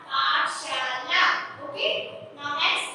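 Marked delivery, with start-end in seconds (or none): 0.1-1.2 पाठशाला said very slowly and loud, syllable by syllable; slow, loud model reading of पाठशाला; slow blending. Shown as a demonstration. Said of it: "अब एक साथ पढ़ेंगे".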